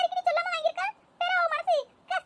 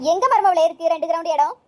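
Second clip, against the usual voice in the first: puzzled mother-in-law; 9 semitones lower, 5 dB louder than usual. Acted. Puzzled mother-in-law demands answer.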